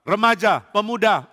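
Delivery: usual speaking voice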